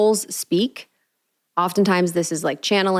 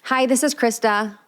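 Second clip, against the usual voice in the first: pitched up, polite phone greeting; 5 semitones higher than usual. Shown as a demonstration. Host demonstrating her answering-the-phone voice, pitched up. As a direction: lift into your pleasant phone voice. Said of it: "the answering the phone voice".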